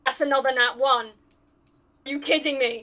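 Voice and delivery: loud, drawn out are you kidding me; outraged disbelief. Real, not acted. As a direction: howl at the second bad roll. Second natural one, outraged.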